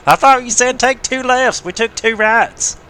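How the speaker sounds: high, loud hick twang drawling out the punchline; country redneck voice. Acted. Teasing a friend over voice chat in a put-on redneck voice. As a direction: play the lost country boy who can't find his farm. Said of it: "that's my country corner redneck voice".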